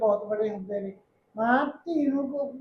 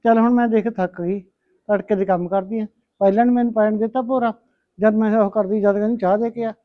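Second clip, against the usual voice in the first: loud, lower, worn-out grumbling; loud tired complaining; 4 semitones lower, 6 dB louder than usual. Acted. Mother complaining to her daughter about chores, loud weary grumble.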